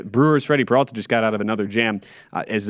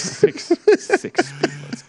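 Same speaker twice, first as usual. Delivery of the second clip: incredulous whisper; much slower than usual. Real, not acted. Mocking exaggerated claim.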